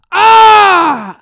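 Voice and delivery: loud, high cry of pain; violent pain yell. Retold or imitated. Wife imitating husband's violent yell: loud pained cry.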